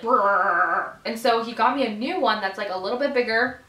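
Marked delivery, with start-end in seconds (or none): 0.0-0.9 put-on loud brrr like an old heater; heater rattle imitation. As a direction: buzz like a noisy heater. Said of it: "it would be like".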